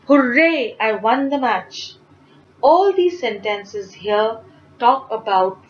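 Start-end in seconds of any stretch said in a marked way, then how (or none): 0.1-1.9 excited cheer. Shown as a demonstration. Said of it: "They are stating strong feelings".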